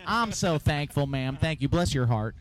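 slow, retold Southern thanks; mock-grateful Southern accent. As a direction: imitate sweet-talking a cop in a Southern accent. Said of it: "Southern accent gets you out".

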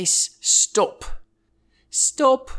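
high, strained snake voice; pinched, high-pitched mock warning; warning rattlesnake. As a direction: warn them off in a put-on high voice. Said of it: "They give you a warning".

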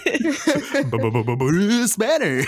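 stuttered B-b-b-b- Bruce Banner, slowly, laughing; stumbling tongue twister. Shown as a demonstration. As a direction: stumble over the B sounds. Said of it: "Say that five times fast".

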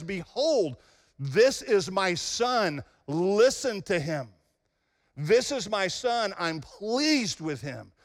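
slow, solemn divine announcement; voice from heaven. Retold or imitated. Preacher voicing the Father at the baptism, slow and solemn.

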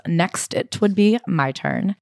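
slow, weighty line. Acted. Reading memoir's dramatic line.

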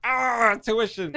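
mock dad balking at tuition costs; a hint of a worried dad; imitating dad. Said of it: "My dad's like".

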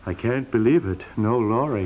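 low mocking imitation of wife; husband mimicking wife's lament; mock mopey. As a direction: parrot her gloomily. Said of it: "I didn't say it like that".

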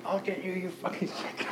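high, laughing as he yells the threat; half-laughing retold yell; imitating a crazy major screaming through laughter; laughing mock scream. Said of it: "and he's screaming".

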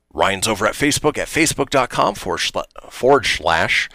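Sean Connery impression. Shown as a demonstration. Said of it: "I'm doing my Sean Connery impression now".

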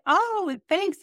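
very high, surprised "Oh, thanks"; a squeaky, caught-off-guard thank you; awkward thanks. Retold or imitated. She answers the stranger's compliment, squeaky awkward thanks. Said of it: "I was like".

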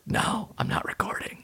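unvoiced soft whisper. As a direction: whisper it so no one wakes. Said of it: "And I was like".

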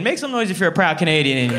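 fast crowd call-out; rally the room. Real, not acted. Hyping up proud Canadians in the crowd, calling out.

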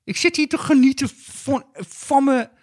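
high, slow neighbour voice; Jacques de Vries impression. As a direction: play the nosy neighbour, high. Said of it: "Maar dat is Jack de Vries".

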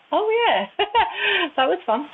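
high, giggling amusement; laughing delight. Retold or imitated. Watching her own show back, she laughs, highly amused. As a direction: laugh through it, tickled.

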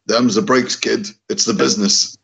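talking around a cigar; words round a cigar; cigar in mouth. Pretend. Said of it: "with a cigar in your mouth".

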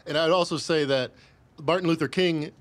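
talking while still wheezing; wheezy, catching breath between words. Real, not acted. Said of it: "You're still wheezing".

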